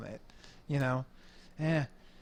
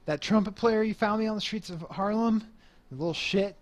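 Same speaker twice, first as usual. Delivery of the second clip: higher-pitched, indignant band leader; irritated complaint; 6 semitones higher, 4 dB louder than usual. Acted. Band leader gripes to Slick about the trumpet player, irritated.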